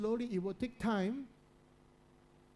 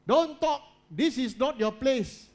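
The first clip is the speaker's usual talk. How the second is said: sudden sharp shout, much higher and louder; parent yelling; 7 semitones higher, 9 dB louder than usual. Retold or imitated. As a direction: snap it out like a furious parent silencing a child. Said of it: "you were always told".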